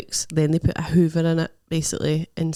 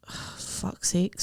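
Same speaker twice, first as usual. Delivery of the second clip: slow, softer, sighed exasperation; exasperated; 7 dB quieter, much slower than usual. Retold or imitated. Patient told to wait another week, exasperated. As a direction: let it out on a weary breath.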